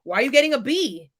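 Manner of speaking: quick, lightly voiced parental reproach; upset dad. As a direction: question it like a displeased dad. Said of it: "my dad was upset when he was like".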